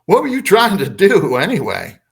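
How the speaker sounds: imitating a tickled alien; amused questioning. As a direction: ask it like you find it funny. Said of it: "he's kinda, uh, laughing about it".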